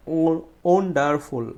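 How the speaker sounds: ওয়ান্ডারফুল slowly, weight on the "won"; stressed first syllable. Shown as a demonstration. Teacher showing students syllable stress, strong "won" in ওয়ান্ডারফুল. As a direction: draw out and push the start of ওয়ান্ডারফুল. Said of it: "জোরে উচ্চারণ করব".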